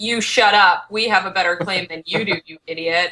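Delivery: normal talking voice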